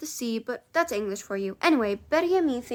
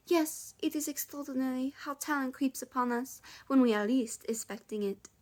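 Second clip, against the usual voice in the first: put-on French accent; 4 dB quieter than usual. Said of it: "She's just gonna be French now".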